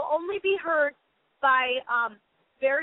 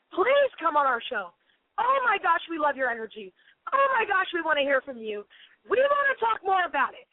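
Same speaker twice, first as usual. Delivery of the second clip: gushing media invite; 3 semitones higher than usual. Retold or imitated. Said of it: "contacting me saying".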